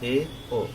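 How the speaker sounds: ए, ओ sounded apart with mouth half closed; half close the mouth on ए, ओ; half-closed vowels. Shown as a demonstration. Teacher drilling half-closed vowels, separate ए, ओ. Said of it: "मुंह इसमें आधा".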